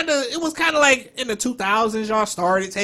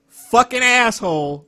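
slow, louder mock insult; mimicked cussing; 3 semitones higher, 5 dB louder, slower than usual. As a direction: draw out the curse like a bad imitator. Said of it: "Y'all are great with that".

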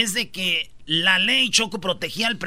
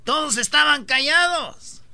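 lightly put-on politician's voice, pitched higher; Obrador; 5 semitones higher than usual. Telling the host nobody spoke up, a hint of Obrador. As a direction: raise the pitch and stretch out the last words. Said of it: "Ya estás hablando como Obrador".

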